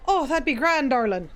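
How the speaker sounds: high, loud delighted acceptance; gushing thanks. Acted. Karina accepts the stallholder's gold offer, gushing. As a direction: gush at the shopkeeper's offer.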